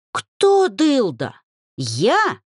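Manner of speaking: offended shriek at the insult. A narrator's reading. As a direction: squeal it in outrage. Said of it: "взвизгнула Дриада".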